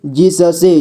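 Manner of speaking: जिससे split as जि-स-से; syllable by syllable. Shown as a demonstration. Teacher showing beginners how to read जिससे, syllable by syllable. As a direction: sound out each letter of जिससे. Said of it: "जोड़ जोड़ करके ही पढ़ना होगा".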